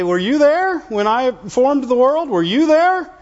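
God questioning Job. Retold or imitated. Preacher voicing God challenging Job, slow and rising. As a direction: ask it like a booming rhetorical question. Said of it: "he'll sit there and tell you".

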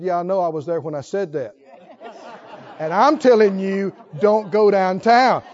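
a patient God repeating the warning; voicing the Holy Ghost. The Holy Ghost warns a stubborn believer, firm and patient. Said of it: "Holy Ghost said".

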